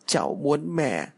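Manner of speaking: put-on high, slow child's voice; pleading child. A narrator's reading. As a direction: draw it out as a small child's plaintive plea. Child pleads for her mother. (giọng trẻ nài nỉ, cao và kéo dài)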